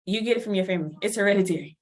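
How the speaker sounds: a hint of a doctor stating the facts; doctor's voice. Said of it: "my P C P told me".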